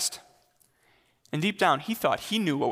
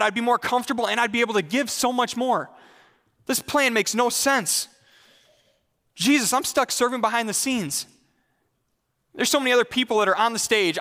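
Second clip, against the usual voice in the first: frustrated; 3 semitones higher than usual. Acted. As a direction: complain to God as if shortchanged. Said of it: "in frustration and say".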